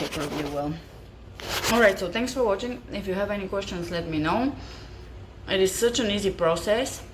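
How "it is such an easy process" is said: talking with a mouthful of bread; mouth full. Real, not acted. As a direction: chew and talk through a mouth full. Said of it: "I'm speaking with my mouth full".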